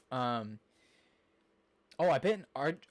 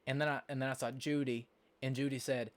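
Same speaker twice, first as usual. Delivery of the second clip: drawling Southern US storytelling; southern accent. Shown as a demonstration. Streamer demonstrating how people further south talk, southern accent. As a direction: spin a rambling yarn in a Southern accent. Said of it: "a southern accent".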